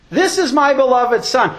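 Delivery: loud, high, ringing declaration; booming proclamation. Acted. Pastor voicing the Father from the cloud, booming. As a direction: announce it like the voice from the cloud.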